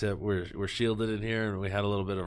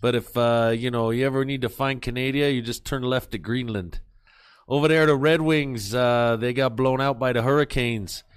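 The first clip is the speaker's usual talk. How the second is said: Boston accent. Shown as a demonstration. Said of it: "do it in a Boston accent".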